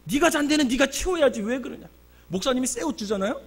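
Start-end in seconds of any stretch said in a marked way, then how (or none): 0.0-1.9 high-pitched reproachful scolding; imitated telling-off, raised pitch; nagging. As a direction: re-enact nagging someone to tidy up. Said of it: "제가 맨날 잔소리했거든".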